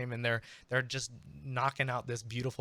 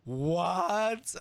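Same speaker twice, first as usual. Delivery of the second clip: much higher, louder astonished crowd; amazed crowd; 9 semitones higher, 4 dB louder than usual. Acted. The crowd going bonkers over the bard's showmanship, astonished. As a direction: crowd shrieking in disbelief. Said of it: "they're like".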